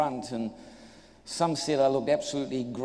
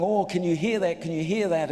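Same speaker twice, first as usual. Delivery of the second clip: retold excited men; 3 semitones higher than usual. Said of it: "the guys around me all excited".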